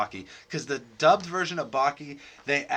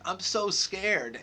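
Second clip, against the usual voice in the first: fake crying; 4 semitones higher, 4 dB quieter, much slower than usual. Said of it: "fake crying".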